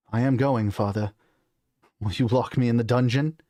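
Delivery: put-on defiant British-accented prince. Son challenges his father, British accent. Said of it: "on the British accent".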